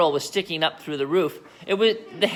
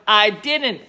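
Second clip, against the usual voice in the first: cackled; 4 semitones higher, 4 dB louder than usual. Acted. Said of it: "cackled the old woman".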